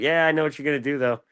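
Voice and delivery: high, knowing mom voice, mildly mocking. Mother teasing her son about his relapse, high and knowing. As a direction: play the nagging mother who already knows.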